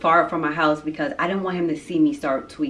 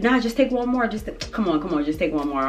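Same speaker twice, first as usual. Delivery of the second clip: coaxing insistence; 3 semitones higher than usual. Retold or imitated. Companion urging her to take another pull, mock coaxing. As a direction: urge it quickly from a raised pitch, then settle.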